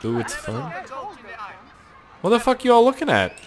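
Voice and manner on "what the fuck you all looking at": mock tough guy. Confronting a crowd, tough voice.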